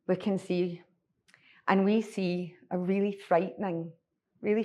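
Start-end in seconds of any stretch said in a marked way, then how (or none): 0.1-0.8 soft whisper, inviting them to look; whispered coaxing from the uncle; hushed urging. Acted. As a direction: whisper it as a quiet, creepy invitation.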